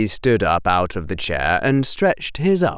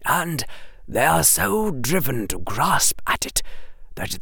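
put-on helpless old headmaster; 4 semitones higher, 4 dB quieter than usual. Headmaster trying to explain to Harry, hushed and helpless. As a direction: plead softly, almost at a loss. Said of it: "sound a little helpless".

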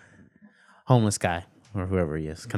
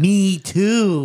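eager me too; 12 semitones higher, 7 dB louder than usual. Retold or imitated. Mimicking stranger's eager reply.

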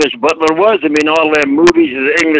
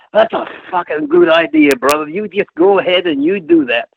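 much higher, far-off put-on voice of the booker; Dusty Rhodes voice; 8 semitones higher than usual. Dusty approving the butler gimmick in the office, in a high put-on voice. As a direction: pitch it way up like a wrestling promoter giving his blessing. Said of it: "that's how he talks in his Dusty Rhodes voice".

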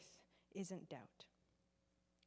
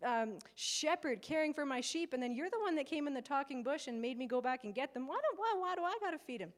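higher-pitched, put-upon complaining; exasperated Moses; 5 semitones higher than usual. Retold or imitated. Moses blaming God for the people, mock-exasperated. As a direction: act out an overburdened leader's protest, building to a higher plea. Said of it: "He's like".

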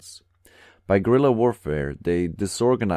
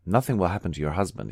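ordinary delivery, nothing marked

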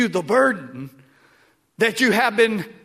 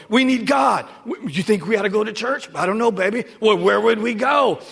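calling out; 4 dB louder than usual. Retold or imitated. Families voiced asking about church.

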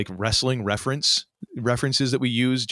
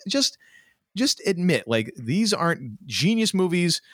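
ordinary delivery

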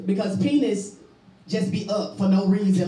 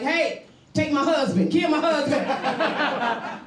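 pleading to robber; 5 semitones higher, much slower than usual. Retold or imitated. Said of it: "be like".

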